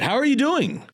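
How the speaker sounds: harsh dad voice. Shown as a demonstration. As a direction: snap the question like an angry dad. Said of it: "But if I had said".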